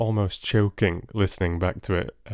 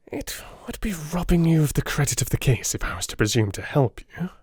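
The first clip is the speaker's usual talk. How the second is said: sarcastic; 6 semitones higher than usual. A narrator's reading. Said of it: "a world of sarcasm in his voice".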